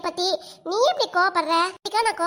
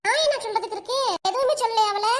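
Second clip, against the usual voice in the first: laughing; 5 semitones higher than usual. Acted. Teased friend answers, laughing.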